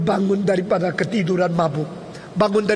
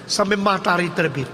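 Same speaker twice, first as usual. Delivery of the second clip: ordinary talk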